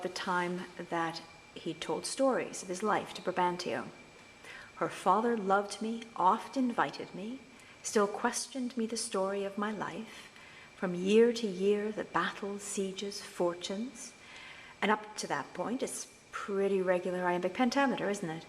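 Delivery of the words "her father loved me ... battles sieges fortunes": slow, measured Shakespeare recitation; teacher reciting Othello slowly; verse reading. Shown as a demonstration. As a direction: read the verse deliberately, line by line. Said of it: "Here's an example from Othello".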